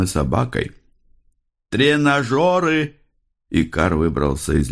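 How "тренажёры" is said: high, slow chant-like cry; raving detective. A narrator's reading. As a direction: proclaim it like a man possessed, stretched out. Raving detective repeats his cryptic word. (высоко, протяжно, как одержимый)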